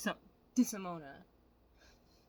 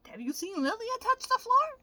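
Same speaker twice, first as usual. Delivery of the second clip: incredulous; 6 dB louder than usual. Real, not acted. Incredulous question.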